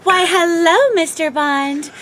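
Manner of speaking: a campy Russian seductress greeting Mister Bond; second Russian accent try. Acted. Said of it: "Is that better?".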